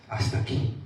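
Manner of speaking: "hasta aquí" breathed as a whisper; whispered surrender. Acted. Preacher voicing a believer's surrender, whispering "hasta aquí".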